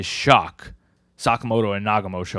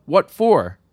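mock disbelief; 8 semitones higher, 8 dB louder than usual. Acting out shocked question about killing.

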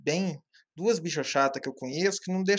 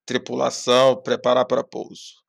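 pilot announcement; 4 semitones lower than usual. Retold or imitated. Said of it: "o piloto vira e fala assim".

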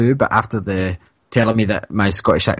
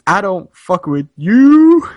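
mocking quote; 8 semitones higher, 5 dB louder, slower than usual. Retold kid's parting shot.

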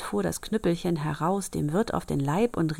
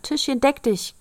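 magic words; 8 semitones higher, 4 dB louder than usual. Acted. Magic command in fairy tale.

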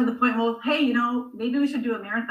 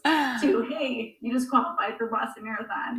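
getting emotional. Real, not acted. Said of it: "I'm getting emotional now".

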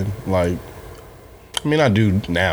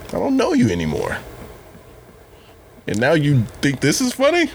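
angry laughter; 10 semitones higher than usual. Retold or imitated. Mock scolding old Facebook friend.

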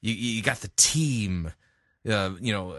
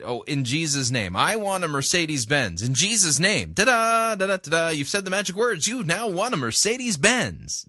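higher, sing-song mocking prayer; mock prosperity prayer; 7 semitones higher than usual. Critic mocking a name-it-claim-it prayer. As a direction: parody a greedy believer's magic words. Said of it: "the idea that".

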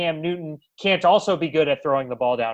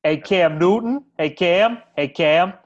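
louder teasing hail to Cam; mock calling out; 3 semitones higher, 5 dB louder, slower than usual. Host calling out to Cam with a louder teasing hail. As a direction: call to Cam as if across a crowd.

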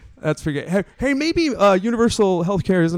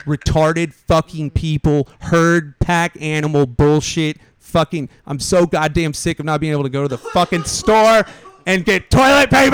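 angry rant; 5 dB louder than usual. Real, not acted. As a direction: vent your fury about the empty shelves. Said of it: "I'm getting very angry".

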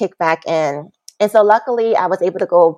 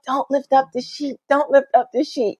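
mock pleading; 6 semitones higher, 3 dB quieter than usual. Begging mother not to look.

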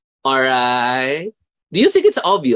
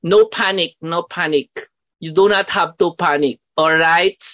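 calming demo; 4 semitones higher than usual. Shown as a demonstration. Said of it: "words you can use".

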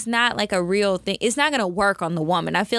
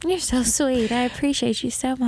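mock gratitude; 4 semitones higher than usual. Voicing grateful friend.

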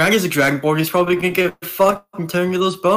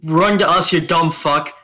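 raised, higher mock yell; 3 semitones higher, 4 dB louder than usual. Player's character yelling to Randy in the cave, raised call. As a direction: call it out as an in-game shout. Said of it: "yell out to Randy".

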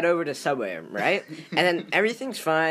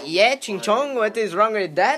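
mock impression; 4 semitones higher, 4 dB louder than usual. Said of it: "That's not how I talk".

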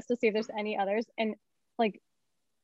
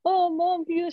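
put-on kids whining to mom; 7 semitones higher than usual. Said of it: "they'll be like".

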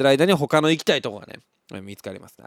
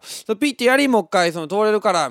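high, fast, louder instructing dad; impatient father; 7 semitones higher, 5 dB louder, faster than usual. Retold or imitated. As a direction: rattle off the instructions like a hurried father. Father instructs child again. (改札で子供に指示する父親、早口で高めの声)

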